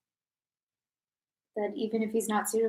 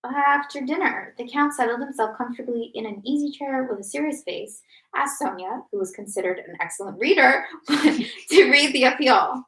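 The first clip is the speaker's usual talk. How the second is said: measured reading-aloud voice; projected, orderly storytelling; story narration; 3 semitones higher, 7 dB louder than usual. A narrator's reading. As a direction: read it out as a novel's narrator. Reads the novel aloud.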